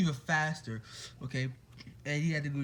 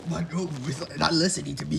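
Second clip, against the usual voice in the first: whiny villain complaint; 6 dB louder than usual. Retold or imitated.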